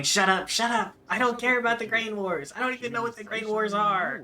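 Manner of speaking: exasperated mock outburst, high and loud; Kiryu. Kiryu answering the voices in his internal monologue, exasperated mock yell. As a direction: yell it like you're fed up with voices in your head. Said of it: "Kiryu saying".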